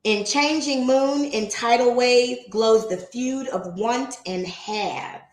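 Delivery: slow, measured poem recital; poem reading. Acted. Reading Emerson's opening poem to the stream, slow recital. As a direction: read each line slowly and deliberately.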